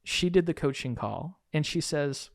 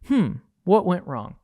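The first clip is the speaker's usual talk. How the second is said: higher, louder puzzled musing; exaggerated wondering to yourself; mock pondering; 4 semitones higher, 6 dB louder than usual. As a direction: play at scratching your head, baffled. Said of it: "scratching my head thinking".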